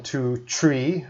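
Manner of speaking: "tree" with a hard t instead of th; dropped th. Shown as a demonstration. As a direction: give the wrong "tree" version. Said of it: "I don't want you guys to do one".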